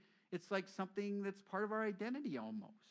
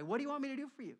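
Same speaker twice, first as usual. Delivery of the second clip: earnest question; 8 semitones higher, 5 dB louder, much faster than usual. Retold or imitated. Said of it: "He's asking the guy".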